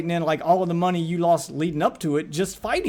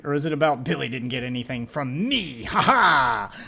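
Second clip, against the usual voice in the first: mock gloating; 4 semitones lower than usual. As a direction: gloat with a fake "ha ha". Mocks the video maker's gloating.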